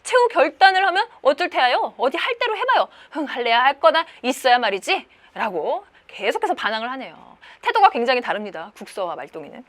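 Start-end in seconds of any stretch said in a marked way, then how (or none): 0.0-5.1 high-pitched, loud angry outburst; defiant yelling. Acted. Maldong tells father to let go, yelling defiantly. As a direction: yell back, voice pushed high in defiance. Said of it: "말동이는 악을 쓰면서".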